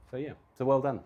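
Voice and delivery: hoarse, strained voice; a tired, hoarse throat; losing his voice. Real, not acted. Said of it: "He's losing his voice".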